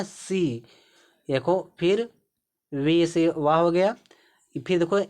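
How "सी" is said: सी with a short i vowel; short vowel sound. Shown as a demonstration. Teacher showing learners a short sound, short vowel in सी. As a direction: keep the vowel in सी brief. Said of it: "sound छोटा है ना".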